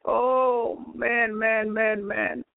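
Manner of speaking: choked up, repeating the words through crying; tearful. Real, not acted. Overcome while recalling Jesus' visit.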